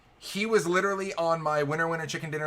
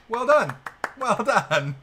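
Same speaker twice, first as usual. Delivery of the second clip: loud, raised mock congratulation; emphatic praise; 5 semitones higher, 5 dB louder, much slower than usual. Player praising an opponent's sick bluff, emphatic praise. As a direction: call out applause for a great play.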